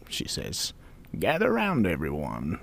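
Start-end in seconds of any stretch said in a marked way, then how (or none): 1.2-2.6 put-on slow, hushed old lady warning; ominous old woman. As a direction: warn them gravely. Opoly ominous call.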